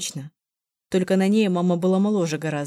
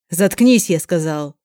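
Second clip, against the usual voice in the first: a loud furious snarl; angry growl; 7 dB louder, slower than usual. Acted. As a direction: shut her up with a roar. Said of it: "прорычал Спартак". (яростно, громко прорычать)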